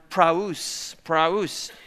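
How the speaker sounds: "praus" said slowly as prah-oos; Greek word praus. Shown as a demonstration. Pastor teaching the Greek word to the congregation, careful pronunciation. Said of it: "It's the Greek word".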